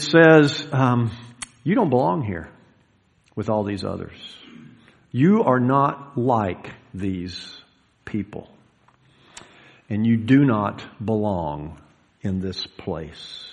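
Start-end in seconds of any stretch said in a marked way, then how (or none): 1.6-13.5 discourage them with heavy, halting phrases that sink away; deadening voice. Acted. Preacher voices the devil's exclusion to listeners, deadening. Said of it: "deadening voice".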